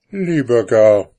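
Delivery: etwas höher und lauter, abweisend; Frauenstimme. A narrator's reading. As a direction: Frau wehrt ohne aufzusehen ab. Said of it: "antwortete die Frau". (Frau antwortet dem Mann abweisend)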